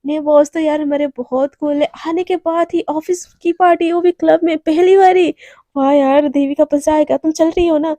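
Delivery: loud, eager office gossip; thrilled about the club party; excited. Acted. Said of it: "बहुत ज़्यादा excited हो जाते हैं".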